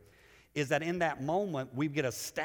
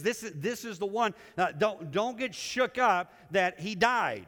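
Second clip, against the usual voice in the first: urgent angel; 5 semitones higher than usual. Acted. Angel voiced comforting the disciples.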